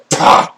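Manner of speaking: loud, explosive "pah" noise; imitated "pah". Game master describes a weapon flung aside, loud "pah". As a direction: burst it out as a swing sound. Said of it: "it was just like".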